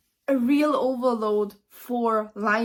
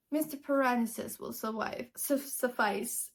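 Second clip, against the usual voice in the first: softer, prim correction; a prim, quieter refusal of first names; stiff and formal; 6 dB quieter than usual. Retold or imitated. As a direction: keep your distance politely. Linus keeps stiff formality.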